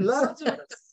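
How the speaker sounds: high, drawn-out mock English accent; hammed-up English accent call. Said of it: "Jesus usually English accent when he said it".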